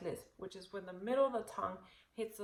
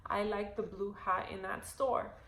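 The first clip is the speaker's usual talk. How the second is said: sentence practice; slower than usual. Shown as a demonstration. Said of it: "sentence level".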